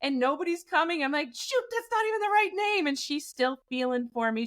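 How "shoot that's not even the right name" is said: high-pitched flustered self-correction; mock panic. Frozen sleeper realizing the name is wrong, retold fluster. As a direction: fret in a raised voice.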